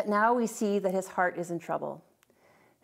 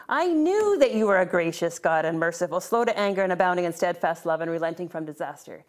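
indignant, accusing reading of the verse, a touch louder; angry tone; 2 semitones lower, 3 dB louder than usual. Shown as a demonstration. Preacher voicing Jonah's bitter complaint to God, mildly angry. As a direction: spit the praise back as a complaint. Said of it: "saying this in an angry, in an angry tone".

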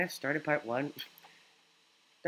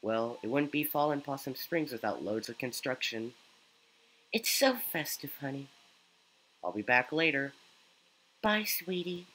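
lightly voiced caring mother, higher; gentle motherly tone, pitched up; mom voice; 4 semitones higher than usual. Streamer voices Mom character.

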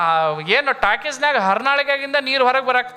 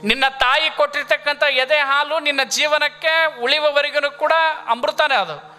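higher-pitched, sustained sermon delivery; preaching; 4 semitones higher than usual. Real, not acted. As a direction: preach it in long, raised phrases. Preacher exalts mother's milk.

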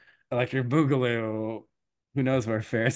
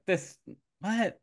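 higher, baffled double take; confused surprise; 9 semitones higher, 4 dB quieter than usual. Retold or imitated. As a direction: squeak out the confusion. Prince confused by swapped wife.

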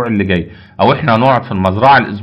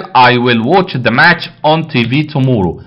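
slow dictation; much slower than usual. Shown as a demonstration. Teacher rereads exercise sentence slowly.

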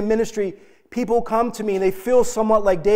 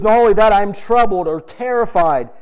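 anguished cry; 6 dB louder than usual. Acted. David voiced crying out to God.

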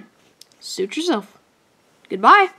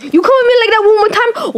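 put-on threatening African American accent take; hammed-up African American accent; 4 semitones higher, faster than usual. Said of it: "now I'm doing my black voice".

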